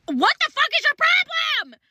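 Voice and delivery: high disbelieving cry; mock outrage at her nerve; sky-high exasperated girl; incredulous. Incredulous retold outburst.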